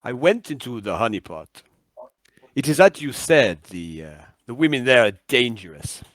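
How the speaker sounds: deliberate, portentous report over the radio; measured phrases with emphatic falls; Big Bird. Acted. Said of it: "And then he goes".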